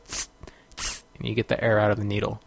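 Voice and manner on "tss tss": syringe hiss. Retold or imitated. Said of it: "he does a little thing where you go".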